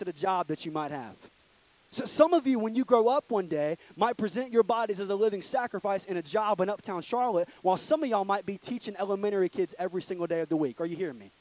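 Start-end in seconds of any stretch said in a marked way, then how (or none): 1.9-9.5 preaching build. Real, not acted.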